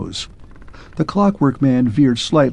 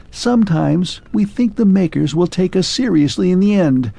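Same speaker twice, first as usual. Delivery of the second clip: clockwork man, raised voice, faltering; lightly voiced machine losing hope; 6 semitones higher than usual. Clockwork man confides his one hope to Arthur.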